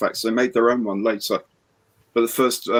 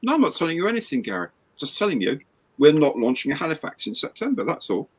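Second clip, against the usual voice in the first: quoting Dale; 5 semitones higher, 3 dB quieter, faster than usual. Retold or imitated. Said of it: "he keeps saying to me".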